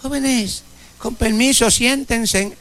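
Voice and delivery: hint of a shy teacher the class ignores; timid teacher. Teacher timidly asking students to sit, meek. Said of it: "si un maestro empieza".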